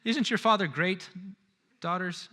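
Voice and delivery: hammed-up doting on her husband; gushing wife. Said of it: "goes from being hysterically frustrated ... to going".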